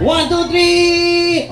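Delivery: drawn-out high count; slow countdown. Acted. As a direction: stretch each number out slowly. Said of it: "game host countdown".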